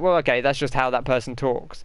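ordinary delivery

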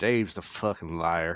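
slow, quiet, under-the-breath mutter. Retelling what was said while aiming an arrow: imitating muttering under breath. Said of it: "Under my breath".

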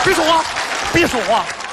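sharp, abrupt shout.

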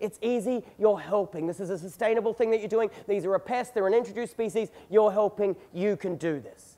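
close, soft, hushed stage whisper. Retelling dad urging a shot at the pig: imitating dad half-whispering. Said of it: "Dad whispers in my ear again".

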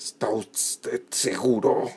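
crying out, exclaimed. Hart shakes a wounded survivor, demanding he confirm his answer; exclaiming. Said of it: "exclamó Hart, sacudiendo violentamente".

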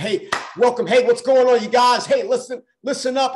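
loud, high-pitched hollering. Retelling greeting a group on a three A M call: imitating own yelling. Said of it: "I'm over here yelling".

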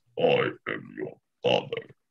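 very deep, hushed, breathless villain voice. Friends trade Darth Vader impressions; doing a Darth Vader impression. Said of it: "I can't do very deep with like my normal voice, but I do that thing where I don't breathe".

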